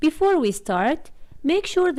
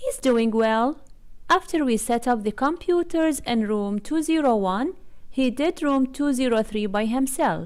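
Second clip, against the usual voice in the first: plain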